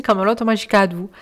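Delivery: southern French accent on "Kaamelott Magic Adou"; accent du Sud. Real, not acted. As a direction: sing "Kaamelott Magic Adou" with a Midi lilt. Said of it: "je prends un accent du Sud". ("Kaamelott Magic Adou" avec l'accent du Sud)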